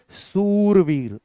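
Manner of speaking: सूरवीर with the ऊ stretched long and slow; teacher stretches the long ऊ in सूरवीर for the class; drawn-out vowel. Shown as a demonstration. Slow drawn-out वowel demo. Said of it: "खींच के बोला जाएगा".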